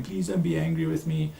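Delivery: lightly voiced cowering plea; mock whimpering. Cowering person pleads with the angry one, mock whimpering. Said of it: "if I see this person whimpering".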